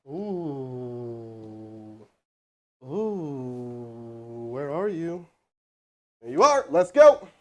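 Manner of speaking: normal talking voice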